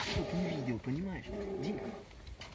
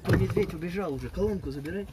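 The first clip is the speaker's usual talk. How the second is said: calling out; 3 semitones higher, 8 dB louder than usual. Pretend. Calling to the man.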